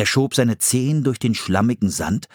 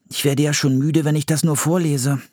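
put-on higher boy voice reading from a book; boy reading aloud; 7 semitones higher than usual. A narrator's reading. Philipp reads the book to his sister, high and careful. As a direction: read it like a kid reciting facts.

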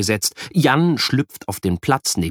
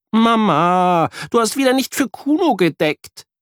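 put-on higher, a touch of childish scolding; scolding boy; 12 semitones higher than usual. A narrator's reading. Boy tells off his mother at breakfast, childish scolding. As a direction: complain to mum on his friend's behalf. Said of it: "schimpft Jan".

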